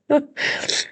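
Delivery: a breathless little laugh through tears; teary laugh. Real, not acted. Apologising to viewers for crying, teary laugh. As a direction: laugh off the tears, high and airless. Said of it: "Sorry, I'm emotional".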